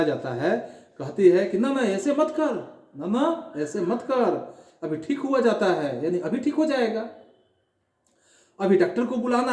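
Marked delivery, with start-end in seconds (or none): 1.6-9.5 put-on higher, coaxing mother soothing her child. Mother soothing her son with a coaxing tone. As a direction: coo at the sick child. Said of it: "पुचकार कर अपने बच्चे को".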